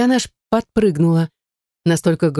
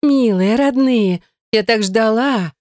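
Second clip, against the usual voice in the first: higher, slow gushing cry; the sister rushes to hug them, gushing; gushing welcome; 4 semitones higher, slower than usual. Acted. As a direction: gush with open arms.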